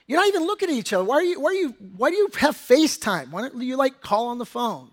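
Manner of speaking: put-upon dad griping; mock exasperation. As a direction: stumble over the questions in playful disbelief. Mock questioning his family's FaceTime habit.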